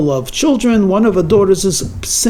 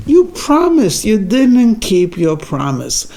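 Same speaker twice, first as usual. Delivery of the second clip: put-on child's reproach; slower than usual. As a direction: hold him to it like a let-down kid.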